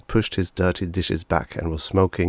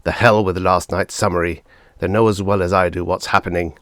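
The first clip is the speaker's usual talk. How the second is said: bitter father; 5 dB louder than usual. Acted. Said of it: "laughed harshly".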